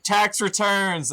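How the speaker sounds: high, drawn-out silly cry; mock cat-talk. Game master imitating someone meowing at a cat, high and drawn-out. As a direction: stretch it out high like nonsense meowed at a cat. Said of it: "when you meow at your cat".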